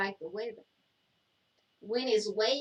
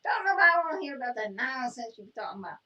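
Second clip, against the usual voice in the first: fast, higher-pitched telling-off; exasperated scolding; 4 semitones higher, 7 dB louder, faster than usual. Real, not acted. Co-host fed up with his turtle nonsense, exasperated scolding. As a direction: scold him loudly at a quick clip.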